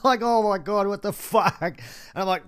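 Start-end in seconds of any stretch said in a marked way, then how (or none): 0.2-1.6 high startled outburst; shocked. Retold or imitated. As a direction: react in disbelief. Shocked retold reaction.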